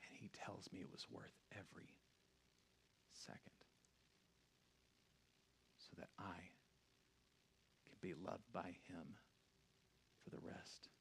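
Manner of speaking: low, very soft altar call; near-whispered invitation, low and solemn; hushed preaching. Real, not acted. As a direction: speak tenderly with long, weighty pauses. Hushed altar call after climax.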